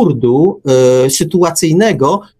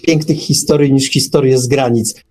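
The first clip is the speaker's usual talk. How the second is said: ordinary talk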